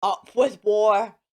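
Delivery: hammed-up war cry; shouting. A narrator's reading. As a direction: roar it out like a mean T rex. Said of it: "And they shouted".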